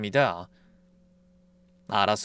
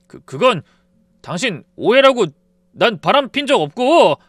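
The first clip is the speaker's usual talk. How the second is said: stammering, louder defensive voice; flustered denial; 6 semitones higher, 8 dB louder than usual. Retold or imitated. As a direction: stumble then get loud. Husband stammers denial loudly.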